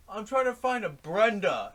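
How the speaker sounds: put-on loud, high-pitched drunken holler; imitated drunk man. Drunk kayaker answers offers of help, hollering.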